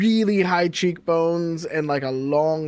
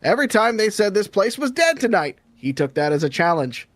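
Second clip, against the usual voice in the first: raised delivery of the punchline; comic punchline; 3 semitones higher than usual. Acted. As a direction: land the gag for the tavern crowd. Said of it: "And he goes".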